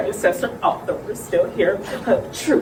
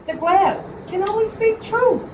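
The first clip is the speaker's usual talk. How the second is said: fortune teller; 13 semitones higher than usual. Acted. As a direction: intone it like a séance medium. Mystic fortune-teller séance voice.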